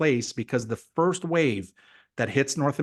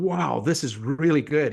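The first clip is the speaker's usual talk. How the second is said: impressed drinkers. Acted. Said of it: "people start drinking it and going".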